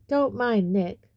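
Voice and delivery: mild, slow hearty call; shout. Acted. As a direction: call out jovially to the crowd. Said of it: "shouted Sir Patrick's head".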